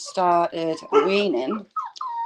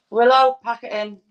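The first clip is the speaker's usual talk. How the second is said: louder, firm scolding of Willow; telling off the dog; 3 semitones higher, 5 dB louder than usual. Real, not acted. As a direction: snap her out of it, firm.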